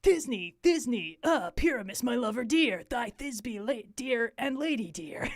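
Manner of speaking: a hint of a mock dainty lady; mild falsetto-ish mock maiden; lightly voiced mock lady; monstrous little voice. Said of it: "speak in a monstrous little voice".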